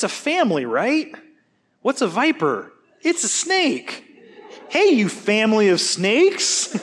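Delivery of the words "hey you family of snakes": slow, laughing mock greeting; laughing playful insult. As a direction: say it with a grin, half joking. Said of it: "that's not a compliment".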